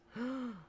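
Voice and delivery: short, soft gasp; a quick intake of delight. Real, not acted. Raving about favorite apples, soft gasp.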